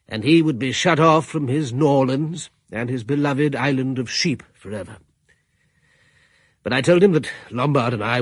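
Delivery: measured storyteller reading, calm and even; narrating the tale of Valdemar at Foss, as a calm storyteller; story narration. A narrator's reading. Host narrator recalling his guest's arrival, calmly told.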